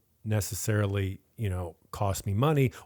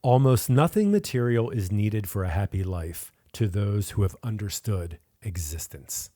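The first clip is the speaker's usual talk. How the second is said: radio voice; 2 semitones lower than usual. Shown as a demonstration. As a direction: read it like a radio host. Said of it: "I'm gonna give you the same voice".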